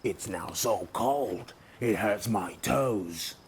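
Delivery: slow, grumbling moan; slow cold complaint. Acted. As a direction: drag it out like a freezing, grumpy bear. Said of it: "he moaned".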